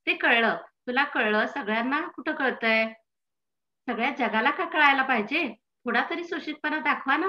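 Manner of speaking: lightly acted scolding, pitch climbing; wife's reproach. Wife to husband disturbing the neighbours, lightly acted reproach. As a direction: chide him with mild, rising exasperation.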